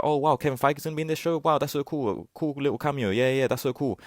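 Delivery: hammed-up starstruck viewer; mock fan gushing. Mocking the audience's reaction to the cameo, mock gushing. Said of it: "Everyone in the audience is supposed to be like".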